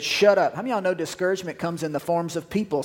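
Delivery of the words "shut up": retold shout. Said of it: "He said".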